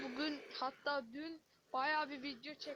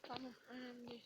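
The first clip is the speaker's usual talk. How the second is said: soft unvoiced whisper; 11 dB quieter, faster than usual. Real, not acted. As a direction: breathe it without voice. Teammate whispers reply.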